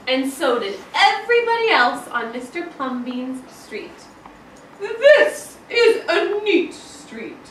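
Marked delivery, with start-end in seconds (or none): 4.8-7.4 high, slow and loud with a laugh; neighbors' cheery voice. Acted. Neighbors admiring the street, high and laughing. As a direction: sing it out like pleased neighbors. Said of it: "they would say".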